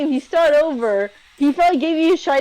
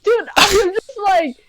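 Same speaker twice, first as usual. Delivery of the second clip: indignant dismissal; 6 semitones higher than usual. Retold or imitated. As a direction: wave them off, offended. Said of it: "I'm like".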